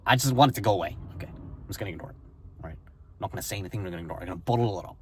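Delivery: imitating a relative, whispered and hushed; breathy whisper of someone avoiding a problem; mock whisper. Relative who ignores feelings, in a hushed whisper. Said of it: "her coping mechanism is to push the feeling away".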